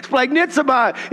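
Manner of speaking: "Splagnitsomai" savoured with a small laugh; enjoy saying "Splagnitsomai"; "Splagnitsomai" said with relish, a laugh before it; relishing the word. Shown as a demonstration. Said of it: "I just like saying that word".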